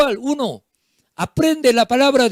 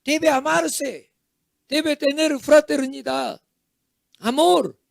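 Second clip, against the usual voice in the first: mock yelling parent, higher and emphatic; scolding parent shouting; 3 semitones higher than usual. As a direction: scold squabbling children insistently.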